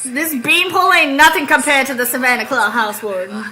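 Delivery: complaining Southern storyteller; Southern accent. Acted. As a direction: grumble in a country Southern accent. Reads Southern character's lines.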